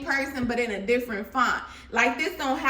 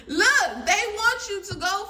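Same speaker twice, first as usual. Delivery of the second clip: laughing exclaim; 8 semitones higher, 4 dB louder than usual. Real, not acted. Laughing high.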